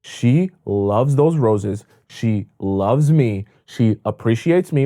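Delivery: a hint of a man basking in praise; impressed boyfriend. Boyfriend seeing her reaction to roses, slow and awed. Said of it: "He'll feel like".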